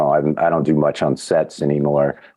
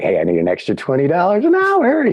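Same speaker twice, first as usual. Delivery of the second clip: mock-bold, higher-pitched ask; cheeky demand; 12 semitones higher than usual. To the producers, asking for a raise, mock bold. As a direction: play it like a cheeky hustle for more money. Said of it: "I'm like".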